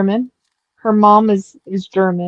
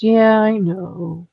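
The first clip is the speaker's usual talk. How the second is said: grudging admission; much slower than usual. Retold or imitated. Son reluctantly admits it, acted.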